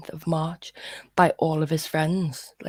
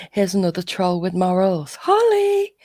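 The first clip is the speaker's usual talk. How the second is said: mock call-out; 5 dB louder than usual. Mock call-out of Holly as troll.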